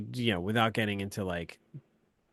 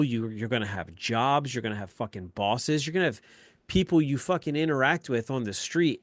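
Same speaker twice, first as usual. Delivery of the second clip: angry dad rant; 4 semitones higher, 6 dB louder than usual. Retold or imitated. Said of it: "I lost my shit".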